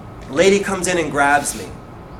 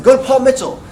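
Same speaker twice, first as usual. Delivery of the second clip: raised, louder exasperated instruction; frustrated; 7 semitones higher, 5 dB louder than usual. Retold or imitated. Stylist telling his eager follower, frustrated. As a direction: imitate someone fed up, pushing the answer out. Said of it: "I think he got frustrated with me".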